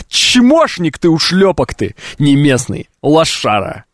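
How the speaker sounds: slow, scornful name-calling; mocking insult. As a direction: sneer down at the outsider. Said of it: "они мне ещё говорят такой". (презрительно, с насмешкой)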